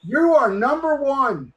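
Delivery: P=A; slow emphatic repeat. Real, not acted. Repeats the tease slowly.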